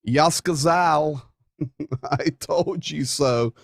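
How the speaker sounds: slow mock Russian line breaking into a laugh. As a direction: slip it in Russian with a chuckle. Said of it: "Maybe I can say it in Russian".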